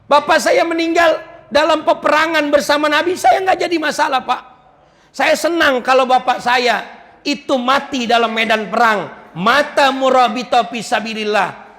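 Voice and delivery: high-pitched, earnest declaration; emphatic avowal. Acted. Child insists death isn't the problem. (menegaskan dengan nada tinggi dan bersemangat)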